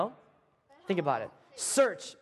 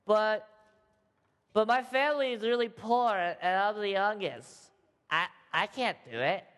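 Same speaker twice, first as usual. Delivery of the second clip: nervous Gideon voice. Retold or imitated. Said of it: "He talked just like this".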